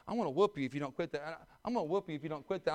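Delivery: fast, rattled-off empty threat; nagging parent. Retold or imitated. Parent repeating the same threat, fast nagging. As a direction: rattle off a tired parent warning. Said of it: "I heard them say twenty-five times".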